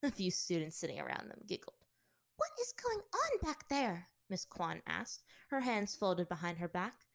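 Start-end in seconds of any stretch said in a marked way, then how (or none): 2.4-4.1 stern teacher. Acted. Teacher demands from front.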